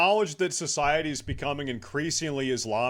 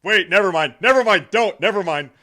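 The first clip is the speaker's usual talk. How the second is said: loud backpedal; 5 semitones higher, 10 dB louder, faster than usual. Real, not acted. Sudden loud retraction.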